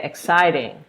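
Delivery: "exciting" leaned on at its second syllable; stress on EXCITING. Shown as a demonstration. Teacher showing word stress, "exciting" hit on its second syllable. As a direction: punch the CIT in "exciting". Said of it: "you're gonna stress the word exciting".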